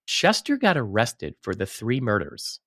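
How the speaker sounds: deliberate, each word set apart; said slowly. Shown as a demonstration. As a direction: lay it out word by word. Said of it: "Let me say this slowly".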